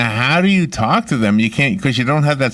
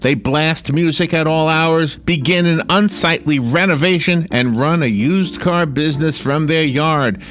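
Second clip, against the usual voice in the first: dramatic trailer read; movie trailer voice; 2 semitones higher than usual. Shown as a demonstration. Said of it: "It almost sounds like a movie trailer".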